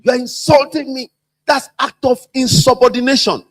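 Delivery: touch of staged outrage; mock offended boss. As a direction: play the insulted boss. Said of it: "I'm quoting them".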